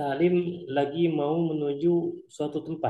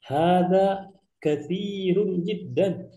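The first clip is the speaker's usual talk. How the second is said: higher, slow, amazed exclamation; amazed Qasim; 5 semitones higher, slower than usual. Acted. Qasim amazed at Salim eating three meals, higher and slow. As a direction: marvel at how much he eats. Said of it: "Maka kata Qasim".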